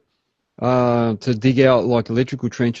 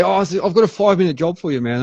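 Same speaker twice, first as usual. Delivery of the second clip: higher-pitched imitation of a casual offer; breezy customer; 6 semitones higher than usual. Customer pitching a five-minute job to operator, breezy imitation. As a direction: mimic someone making light of a job.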